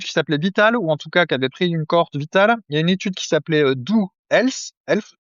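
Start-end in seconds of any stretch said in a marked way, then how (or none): 3.8-5.1 slow, self-mocking English accent on Health. Shown as a demonstration. Reading a study name, jokingly in an English accent. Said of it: "avec mon super accent anglais".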